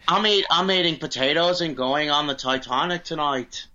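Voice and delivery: hammed-up, imperfect Irish accent; mock Irish accent. Irish passenger going on the Titanic, mock Irish accent. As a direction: play a stereotyped Irish emigrant. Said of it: "just a little bit more nasally".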